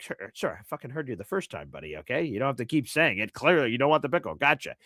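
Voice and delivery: low, irritated clerk, lightly voiced; mild mock annoyance from the clerk; testy. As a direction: snap back at a repetitive customer. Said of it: "sort of testy".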